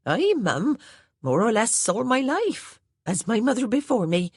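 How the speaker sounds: put-on a plain-spoken old housemaid reporting orders; Hattie the maid's voice. A narrator's reading.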